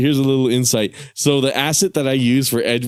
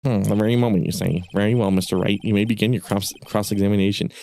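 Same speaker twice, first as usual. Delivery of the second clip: a hint of a lower, nasal judge; nasal old judge; 3 semitones lower than usual. Judge granting cross-examination, lightly lower and nasal. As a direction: drone it like a tired judge. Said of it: "nasally for it".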